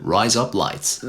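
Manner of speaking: botched attempt at an American accent; slow, unconvincing American drawl on the words. Shown as a demonstration. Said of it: "meant to be an American one".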